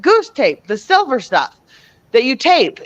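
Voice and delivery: put-on young Megan pleading her case. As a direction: insist like a kid who knows what she means. Child insisting to mom.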